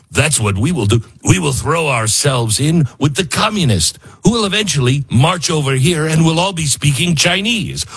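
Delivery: lightly voiced pompous leader, hammed-up; a hint of a smug, foolish politician; mock prime minister. Mocking Canada's prime minister, lightly hammed-up pompous voice. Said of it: "I shouldn't use a Trump voice 'cause it was much more like".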